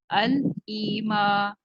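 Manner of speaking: अल ईमा drawn out very slowly; slow model reading. Shown as a demonstration. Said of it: "एक नून आप add करेंगे".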